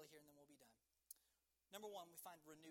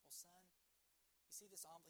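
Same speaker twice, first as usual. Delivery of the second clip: understated, halting sadness with pauses; mildly acted fatherly disappointment; disappointed dad. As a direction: imitate a let-down father, head hung. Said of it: "just kinda hangs his head".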